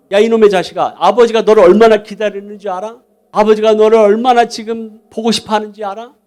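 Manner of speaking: acted urgent rebuke to a runaway brother; brotherly scolding. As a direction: berate him with force. Elder brother berating runaway younger brother.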